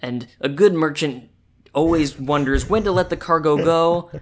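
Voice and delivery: put-on lightly gruff old trader voice; a hint of a weathered merchant; grizzled merchant. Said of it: "You make him sound so grizzled".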